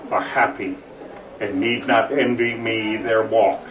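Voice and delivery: lamenting prince. Acted. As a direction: speak it as a weary prince. Quotes Rasselas's lament aloud.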